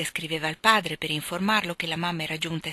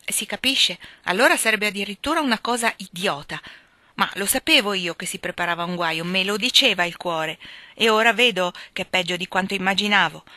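exasperated rant; 4 dB louder than usual. Acted. Joe fuming about losing Meg.

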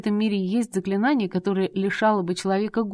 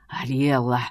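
much lower hissed Ариэлла; hissed name; 6 semitones lower, slower than usual. A narrator's reading. Husband hisses his wife's name in warning. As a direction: hiss her name low and menacing. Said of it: "прошипел он".

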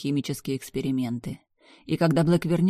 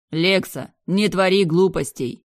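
higher and louder plea; shouting brother; 4 semitones higher, 7 dB louder than usual. Acted. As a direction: yell a warning. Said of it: "орал брат".

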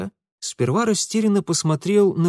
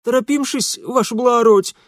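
excusing servant; 10 semitones higher, 5 dB louder than usual. A narrator's reading.

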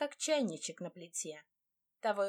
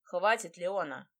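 louder, sharp snap; irritated and snide; 5 dB louder than usual. Acted. Demir cuts Leona off, irritated and snide. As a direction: bristle at her, irritated and mocking. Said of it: "Раздражённо и ехидно ощетинился Демир".

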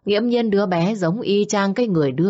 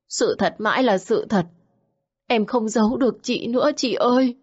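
Xuyến's higher, pleading voice; confessing, pleading; 3 semitones higher than usual. Acted. Xuyến confessing to Nương, higher and pleading. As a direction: confess everything, begging to be spared.

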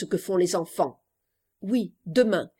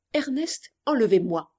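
reciting her note. Acted. Girl recalling the letter she just posted, recited plainly. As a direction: recall the short note, dropping on the plea. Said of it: "Trois mots".

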